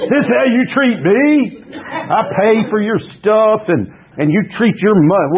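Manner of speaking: hammed-up whiny drunk, laughing; mock drunk rant. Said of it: "it sounds like a drunk".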